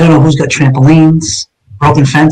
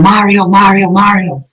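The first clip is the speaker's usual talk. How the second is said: retold yell; 4 semitones higher than usual. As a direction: mimic someone calling out a name urgently. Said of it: "He was yelling".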